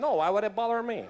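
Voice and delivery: lightly mimicked Cuban accent. Cuban friend replying to the actor, mock Cuban accent. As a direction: answer back with a put-on Cuban accent. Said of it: "who's a diehard Cubano".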